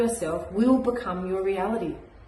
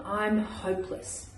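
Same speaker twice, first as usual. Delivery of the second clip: put-on dejected child; 7 dB quieter, slower than usual. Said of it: "it broke my heart to hear her speak like that".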